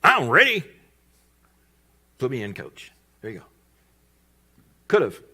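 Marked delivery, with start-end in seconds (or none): 0.0-2.9 loud, high, cocky volunteer; eager boasting. Retold or imitated. Another disciple begging Jesus for a turn, loud and eager. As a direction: call out to be picked. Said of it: "why didn't one of the other eleven go".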